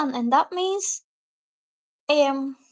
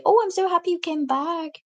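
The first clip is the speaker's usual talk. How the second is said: mock happy greeting; 5 semitones higher than usual. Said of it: "are you going to be smiling at him and say".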